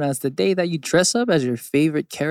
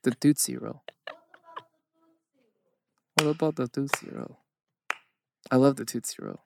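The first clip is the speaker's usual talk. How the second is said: put-on lilting Swedish accent; sing-song Swedish lilt; 4 dB quieter than usual. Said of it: "a Swedish accent".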